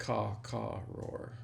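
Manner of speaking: bird caw then a roar; Wilderness Explorer call. Shown as a demonstration. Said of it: "That's how you say it".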